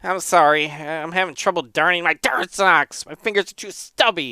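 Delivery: lightly voiced flustered monk; embarrassed monk. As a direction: apologise with mild embarrassment. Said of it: "He is instantly embarrassed".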